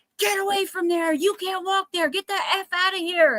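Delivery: put-on shrill, very high, all-out screaming. Recounting a man yelling at them for where they walked, the speaker imitates a man screaming. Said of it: "the guy yells and he's screaming".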